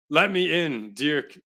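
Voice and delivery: gruff barbarian voice. Acted. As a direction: growl it like a barbarian. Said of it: "I sound like a barbarian".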